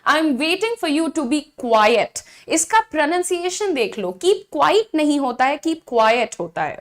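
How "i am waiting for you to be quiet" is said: very slow, word by word; slow model sentence. Shown as a demonstration. Teacher modelling a sentence slowly for learners. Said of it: "English में हम कहेंगे".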